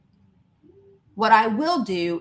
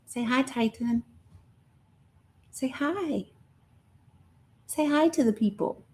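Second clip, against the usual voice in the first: coaxing the cat; 3 semitones higher, 4 dB quieter than usual. Real, not acted. Coaxing her cat to greet viewers.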